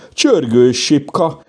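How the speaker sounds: high, drawn-out happy call; crying out. A narrator's reading. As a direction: call out the find, high and slow. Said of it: "kiáltotta Lupi".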